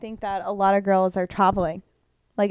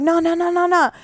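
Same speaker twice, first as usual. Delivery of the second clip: whiny no; 8 semitones higher, 3 dB louder than usual. Retold or imitated. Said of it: "And I'm like".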